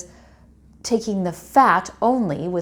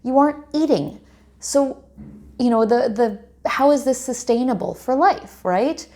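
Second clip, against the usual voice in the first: mildly exasperated, raised pitch; a touch of indignant disbelief, pitched up; frustrated retort; 4 semitones higher than usual. Retold or imitated. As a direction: retell your frustration as a pointed objection. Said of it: "it really frustrated me".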